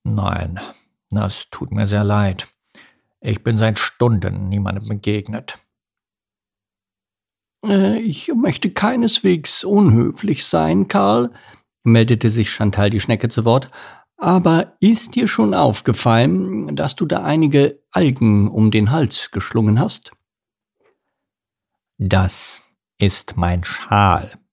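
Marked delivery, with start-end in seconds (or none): 0.0-5.6 carp voice. Acted. Voices Karl. 7.6-11.3 high, slow, slimy snail voice. Acted. Chantal speaks. 14.2-20.1 ooze the name out like a snail; slimy snail voice. Acted. Chantal speaks. 22.0-24.4 carp voice. Acted. Karl answers.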